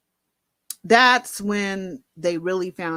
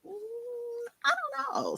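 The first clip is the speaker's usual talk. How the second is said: faint; 8 dB quieter, slower than usual. Retold or imitated. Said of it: "I'm like".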